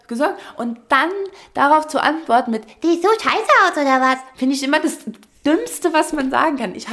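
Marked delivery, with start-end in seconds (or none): 2.8-4.2 higher, snippy, defensive reply; imagined rude reply to a kind stranger, snippy; snippy retort. Retold or imitated. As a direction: snap back as if insulted. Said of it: "in meinem Kopf klang das dann so".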